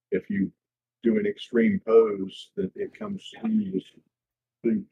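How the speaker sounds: echoey, distant from the microphone; muffled, roomy mic sound; far from mic. Real, not acted. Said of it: "you're a little echoey".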